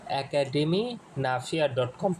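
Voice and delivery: একাডেমি Nafia dot com said slowly and deliberately with a rise on com; teacher slowly drilling academy Nafia dot com; slow emphatic answer. Shown as a demonstration. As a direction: answer your own question by drawing out academy Nafia dot com. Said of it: "কোথায় যাবেন?".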